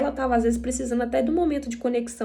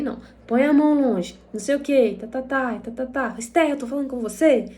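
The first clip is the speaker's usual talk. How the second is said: retold exasperated scolding; 3 semitones higher, 5 dB louder than usual. Bronca repetida da mãe, reencenada.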